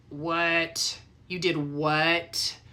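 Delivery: slow, drawn-out disbelieving question; a lightly voiced shocked ex-husband; stunned disbelief. Ex-husband hears the news.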